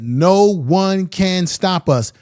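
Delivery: slow, drawn-out mock boast; slow, deliberate mocking of a boast; mocking Trump quote. To his viewers, slowly mocking Trump's boast. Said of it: "he simply said".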